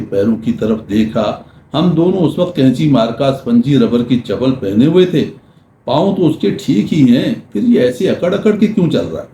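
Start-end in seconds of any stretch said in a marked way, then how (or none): 5.9-9.3 inner thought. Retold or imitated. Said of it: "मैंने सोचा".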